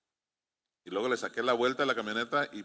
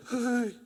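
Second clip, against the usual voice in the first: high-pitched frightened "ay"; startled yelp; 8 semitones higher than usual. Acted. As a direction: yelp as if spooked by a noise. Startled by noise at home.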